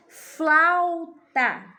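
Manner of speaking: bright teacher-style word call; clear example word. Shown as a demonstration. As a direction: announce the word to the class. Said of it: "teacher reading example word".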